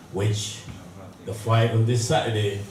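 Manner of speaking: usual speaking voice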